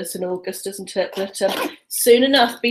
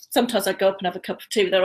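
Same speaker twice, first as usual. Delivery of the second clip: rushed nervous talk; much faster than usual. Real, not acted. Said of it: "still talking very rapidly".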